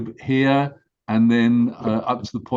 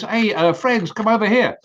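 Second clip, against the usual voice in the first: calling turtle; 7 semitones higher than usual. Acted. Turtle calls his friends.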